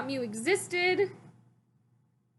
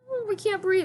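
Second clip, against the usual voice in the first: mock panic; 9 semitones higher, 4 dB louder than usual. Characters gasping underwater.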